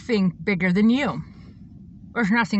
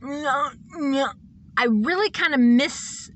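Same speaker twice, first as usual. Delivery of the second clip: tearful; 4 semitones higher, much slower than usual. Real, not acted. Voice breaks into crying.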